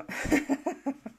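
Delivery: short amused chuckle; brief real laugh; a quick giggle to herself. Real, not acted. Reacting to live viewer chat.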